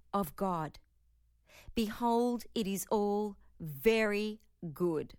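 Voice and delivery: slow affirmation with long pauses between phrases; slow, deliberate affirmation; slowly. Shown as a demonstration. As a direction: let each phrase land, slowly. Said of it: "I'm going to say it slowly".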